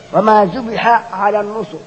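slow recited وما ذبح على النصب with the حاء and عين kept apart; Quran recitation. Shown as a demonstration. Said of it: "هذه حاء بعد عين".

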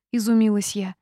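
usual speaking voice

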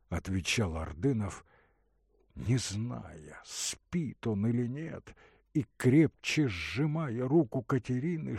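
plain reading voice

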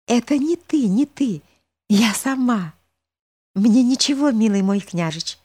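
calm them both down sweetly; tender girl reassuring. A narrator's reading. Girl comforts youth and old man. (ласковый девичий голос)

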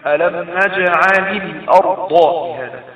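"نجعل الأرض" recited slowly, lam given a short i; slow verse recitation, "نجعل" flowing into "الأرض" through an i; linking kasra. Shown as a demonstration. Teacher demonstrates the verse after the rule, linking kasra. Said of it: "فبنحرك اللام حتى تسهل القراءة".

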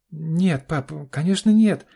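high, loud rushed denial; hasty denial. A narrator's reading. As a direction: blurt it out fast. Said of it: "поспешно произнесла она". (поспешно, высоко и громко)

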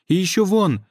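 high eager cry; excited exclaim. Acted. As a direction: point it out with delight. Girls pointing at more crystals.

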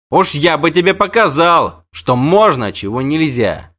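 put-on the knight answers the girl before coughing; gruff threat. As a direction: grumble the threat back at the girl. Freixenet threatening.

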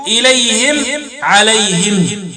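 "إليهم، عليهم" ending in -him; kasr ha, silent-vowel mim. Shown as a demonstration. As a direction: close both words on a still m after "hi". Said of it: "وقرأوا بإسكان الميم وكسر الهاء وقفا".

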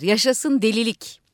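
announcer reading the news, growing urgent; live report as the madmen storm in; radio announcer. Acted.

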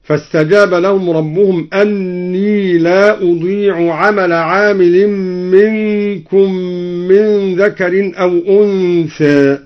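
slow recitation ending with أنثى, its final vowel slightly tilted; reduced imāla on unthā. Shown as a demonstration. Teacher demonstrating taqlīl on أنثى, slow chanted recitation. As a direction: give أنثى a light half imāla, taqlīl. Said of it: "وقلل أنثى".

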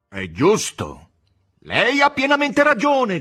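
booming high roar, slow and huge; thundering terrible voice. Acted. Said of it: "con voce tonante e terribile". (voce tonante e terribile, gridando lentamente)

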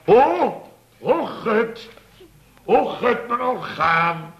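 high, loud, overwrought diva whimpers; mock a singer fretting over her voice; hammed-up prima donna fretting over her voice; fussy coloratura singer. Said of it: "die begon meteen van".

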